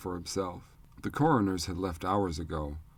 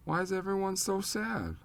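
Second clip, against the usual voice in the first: put-on worried child; 12 semitones higher than usual. Child asks the grieving adults.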